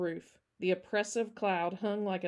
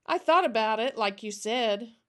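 put-on brightened child; 2 semitones higher, 6 dB louder than usual. Her expression brightened.

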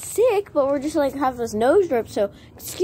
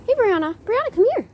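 calling out; 11 semitones higher than usual. Real, not acted. Calling a horse from afar.

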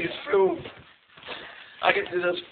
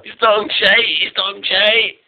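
loud; 4 semitones higher, 9 dB louder, much slower than usual. Real, not acted. Loud insistence.

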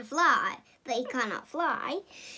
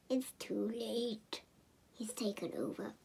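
whisper; 4 semitones lower, 12 dB quieter than usual. Acted. Narrator whispering that the villain has won. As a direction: breathe it out like doom has come. Dramatic doom line.

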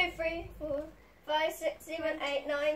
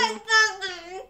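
cheeks stuffed full. Real, not acted. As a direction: mouth full of marshmallows. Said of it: "put 'em in your mouth more".

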